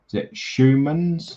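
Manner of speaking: Schumann's said slowly and tentatively, rising like a question; unsure pronunciation. Shown as a demonstration. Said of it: "butcher your name".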